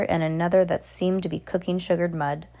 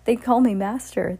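mildly proud, higher-pitched; pleased; 5 semitones higher than usual. A narrator's reading. Husband boasting to his wife, mildly pleased. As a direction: show off the title, pleased.

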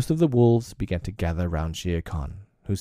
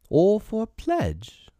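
much higher, slow mocking retort; panther retort; 13 semitones higher, slower than usual. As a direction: throw it back at the pack, teeth bared. Bagheera retorts with teeth bared.

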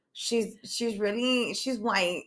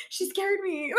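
laughing excuse; 11 semitones higher, 3 dB quieter than usual. Retold or imitated. Acted excuse amid laughter.

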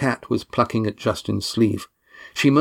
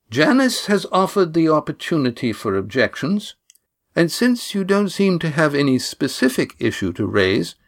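put-on higher, measured old lady voice; calm authority of an elder; slow and clear; 6 semitones higher than usual. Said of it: "spoke slowly but clearly".

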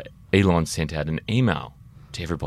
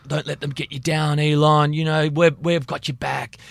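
high-pitched, earnest cheerleading of a hero; mock consoling fans; 9 semitones higher, 4 dB louder than usual. Host imitates Tesla fans telling Elon they've got his back, mock consoling. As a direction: play a gushing supporter, pitched well up.

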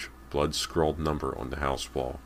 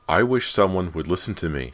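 raised, higher, angry complaint; 4 semitones higher, 6 dB louder than usual. A narrator's reading. Girl whom nobody listens to, angry. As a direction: say it angrily, fed up at being ignored. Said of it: "she said angrily".

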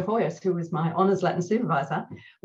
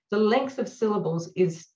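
ordinary delivery

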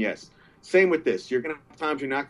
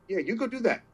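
put-on pushy old lady; 8 semitones higher than usual. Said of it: "pushed me like".

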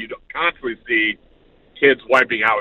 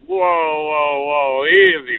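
high, loud whoa whoa; mock startled; 3 semitones higher, 4 dB louder, much slower than usual. Dad startled by the neighbor's insult. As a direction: pull back, startled and taken aback. Retold reply to a fat insult.

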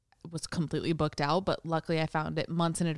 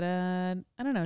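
usual speaking voice

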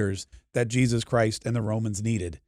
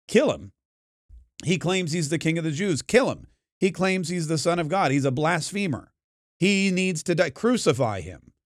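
retold cry of an accusing crowd; mild mock yell; 3 semitones higher than usual. Priests and rabbis demand a death, mildly mock-yelled. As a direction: imitate a yelling mob, only mildly. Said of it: "is what they yelled".

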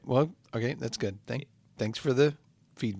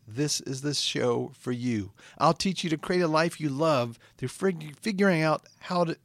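deliberate motivational host delivery; measured self-help pitch; podcast intro. Acted. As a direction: recite an inspirational show opening. Host resumes recited intro.

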